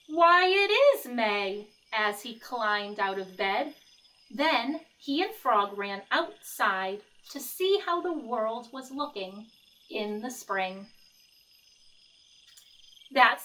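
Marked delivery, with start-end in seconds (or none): 0.1-10.9 lively picture-book read-aloud; reading to children. A narrator's reading. Teacher reading Frog and Toad to the class, lively storytelling. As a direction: read it like story time for kids.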